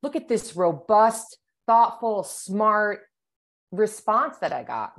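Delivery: mock delighted client praising the answer; impressed client. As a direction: gush over a great reply. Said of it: "They're like".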